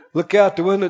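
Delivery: ordinary talk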